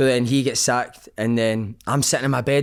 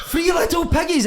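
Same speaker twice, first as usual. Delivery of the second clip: put-on high, slow, shouted Italian-accented manager; Paolo Di Canio. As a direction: bellow it like a shocked Italian boss. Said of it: "he goes like that".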